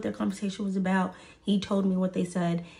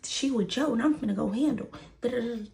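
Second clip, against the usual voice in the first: retold going off; 3 semitones higher, faster than usual. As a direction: imitate her ranting on and on. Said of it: "going off".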